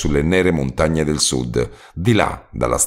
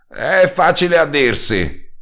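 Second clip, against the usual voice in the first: slow, much higher moan; 11 semitones higher, slower than usual. A narrator's reading. Hungover roadman moaning to the narrator. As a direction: moan it in misery.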